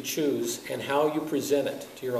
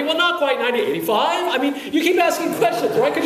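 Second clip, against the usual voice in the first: lightly acted evasive friend, higher pitch; friend admitting; 9 semitones higher, 4 dB louder than usual. Friend owning up to the speed, high evasive hedging. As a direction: hedge it reluctantly in a raised voice. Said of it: "a friend of yours saying".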